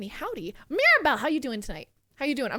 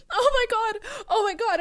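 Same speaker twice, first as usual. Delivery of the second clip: giddy; 9 semitones higher, 3 dB louder than usual. Real, not acted. Thrilled watching new video.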